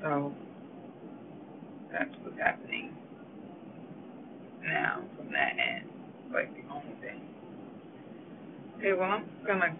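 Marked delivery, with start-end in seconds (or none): 1.9-7.2 talking through a yawn; words stretched by a yawn. Real, not acted. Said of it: "I'm sorry I keep yawning".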